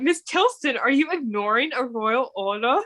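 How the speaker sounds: a bad, lightly done English accent; a half-hearted royal English accent. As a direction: try a hammy English accent, not quite there. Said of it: "That was a horrible English accent".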